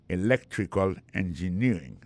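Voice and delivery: "electrical engineering" as e-LEC-trical engi-NEER-ing; careful teacher's model of "electrical engineering", LEC and NEER stressed; stressed syllables. Shown as a demonstration. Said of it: "ça veut dire accent tombé".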